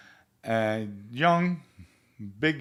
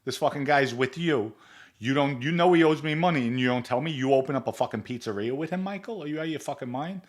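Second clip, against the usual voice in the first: angry tirade; 4 semitones higher, faster than usual. Retold or imitated. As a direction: spit the questions out in rising fury. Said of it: "Vinny rips into him".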